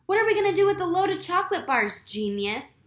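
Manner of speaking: high, loud and fast angry question; sneering angry demand. A narrator's reading. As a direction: hurl it at your partner. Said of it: "Lefty demanded of Louis".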